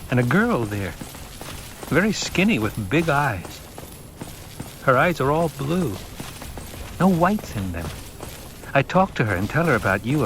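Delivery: put-on a boy reciting his dream dreamily; young boy recalling. Paul describing his dream to the Reverend Mother, lightly boyish.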